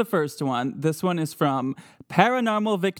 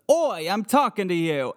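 mock British ghost; 4 semitones higher than usual. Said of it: "That is what they believe it says".

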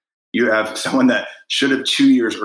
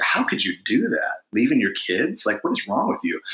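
mock disapproval; 3 semitones higher than usual. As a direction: imitate an appalled onlooker judging a parent. Retold judgement of careless parents.

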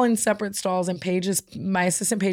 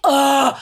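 loud, high "ugh" of revulsion; groan, unable to stand it; exasperated groan; 6 semitones higher, 6 dB louder than usual. Real, not acted. Disgust at whiny tone.

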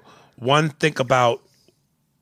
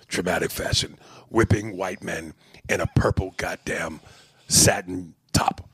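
low, hushed Paul Mooney impression; 4 semitones lower than usual. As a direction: speak low and knowing like Mooney. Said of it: "in your Paul Mooney voice".

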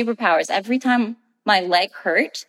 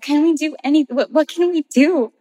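pleading mom; 7 semitones higher than usual. Retold or imitated. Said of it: "she was like".

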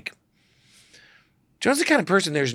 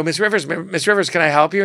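obsequious; 4 semitones higher, 5 dB louder than usual. Retold or imitated. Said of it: "be obsequious and you're gonna go".

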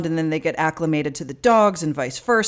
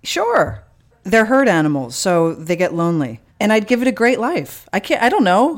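defensive; 3 semitones higher, 4 dB louder than usual. Real, not acted. Defends elephant plan, friends tease.

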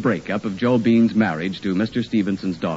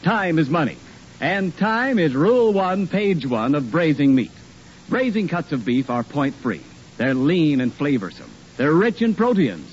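ad read; 2 semitones higher than usual. Acted. Commercial read by announcer.

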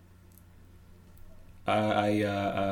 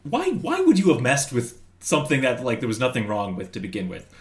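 mock anger; 3 semitones higher than usual. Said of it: "And just the anger at".

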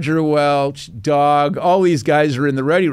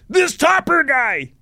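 higher, slow sneering imitation of the captain; mock captain; 11 semitones higher, slower than usual. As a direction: drawl the nickname like the annoyed captain. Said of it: "And he said".

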